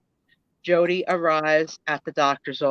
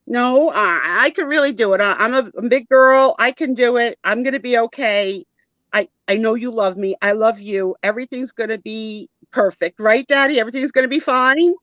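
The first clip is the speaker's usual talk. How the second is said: halting, higher, eager self-reassurance; brave-faced daughter; 4 semitones higher, 3 dB louder than usual. Acted. Daughter reassures Daddy she'll cope, mildly anxious. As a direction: put on a big-girl front, seeking comfort.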